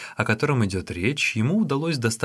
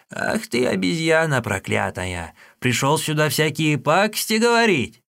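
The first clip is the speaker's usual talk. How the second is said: put-on enraged old woman yelling insults; furious cry; 5 semitones higher than usual. Old woman, enraged by the boy's words, yelling at him. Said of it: "она в бешенстве крикнула".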